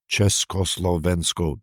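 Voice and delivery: syllables drawn out slowly, at an even level. Retold or imitated. Old man's first public word from the balcony, very slow. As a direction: imitate a slow, measured public address. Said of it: "he said it very slowly".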